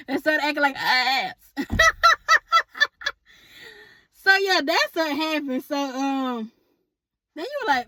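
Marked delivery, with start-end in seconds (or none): 1.6-3.1 squealing laugh, pitched way up; high burst of laughter. Real, not acted. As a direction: let a high giggle burst out. Keeps laughing at the joke.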